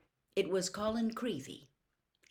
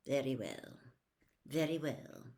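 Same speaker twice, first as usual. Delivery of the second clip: snapped; 4 semitones lower, 3 dB quieter than usual. Acted. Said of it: "Snape snapped".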